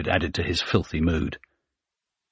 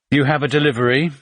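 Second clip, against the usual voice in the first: posh English; 7 semitones higher, 4 dB louder, faster than usual. A narrator's reading. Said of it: "posh English voice".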